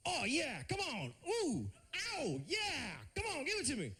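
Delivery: mock passionate moaning for the weekday name; moaning day name. Comedian names a weekday, moaning in mock passion. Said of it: "the last day of the week would be called".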